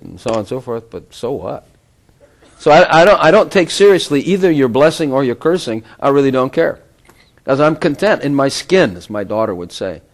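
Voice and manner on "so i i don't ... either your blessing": laughing through the words; amused laugh mid-sentence. Real, not acted. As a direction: chuckle as you say it. Laughs while dismissing praise.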